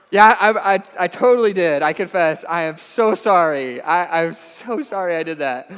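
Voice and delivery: loud pleading confession, slowing down at the end; mock-contrite dad owning up to his daughters; begging forgiveness. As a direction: plead with the kids, sorry and drawn out. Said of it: "I'm begging for forgiveness".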